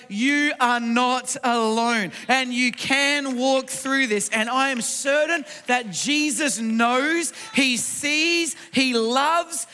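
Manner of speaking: slow, weighted preaching declaration; emphatic preaching. Real, not acted. Preacher assuring the congregation they are not alone, emphatic preaching. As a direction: drive each short phrase home with measured force.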